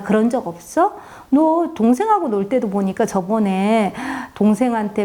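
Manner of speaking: light retold scolding; a mild mock of a mother's reproach. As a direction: lecture the kid about sharing. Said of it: "도로 막 나무랐습니다".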